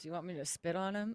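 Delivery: soft, hushed half-whisper, kept low, under breath. Voicing a character's aside about a bugbear: Deanna half-whispering under her breath. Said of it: "Deanna's gonna whisper".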